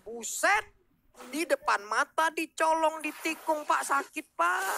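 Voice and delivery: excited. Real, not acted. Co-caster reacts to stolen kill.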